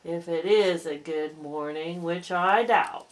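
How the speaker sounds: a touch of weary Eeyore gloom; gloomy old donkey. Acted. Eeyore greeting Pooh, low and glum. Eeyore doubts the good morning.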